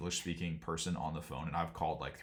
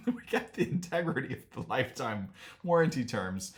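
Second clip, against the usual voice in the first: laughing through the quote, higher pitched; 4 semitones higher than usual. Real, not acted. Quoting new owners on warranty terms, laughing. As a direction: try to get the words out through real laughter. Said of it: "I shouldn't laugh".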